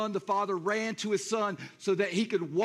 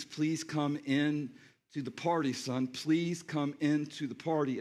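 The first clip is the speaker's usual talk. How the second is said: pleading; 6 semitones lower than usual. Acted. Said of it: "puts his arm around him and pleads".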